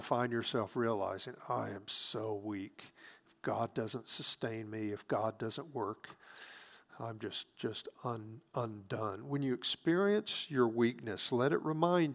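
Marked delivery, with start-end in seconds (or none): 1.5-9.3 weak, undone. Retold or imitated. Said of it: "you will experience weakness".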